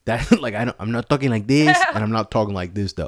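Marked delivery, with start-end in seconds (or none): 0.8-1.8 imitated Black American accent; mock Black accent. Shown as a demonstration. Showing the accent people expect from San Jose, mock Black accent. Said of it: "I don't sound black or Mexican". 2.0-2.9 imitated Mexican American accent; mock Mexican accent. Shown as a demonstration. Showing the other accent people expect from San Jose, mock Mexican accent. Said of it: "I don't sound black or Mexican".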